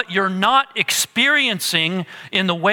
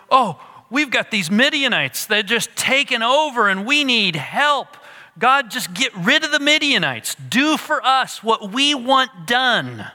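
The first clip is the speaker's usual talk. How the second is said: a mildly voiced, higher whining plea from the people; pleading Israelites; 6 semitones higher than usual. Preacher mocking the Israelites' prayer: mild whiny plea. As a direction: ham up their demanding prayer a little.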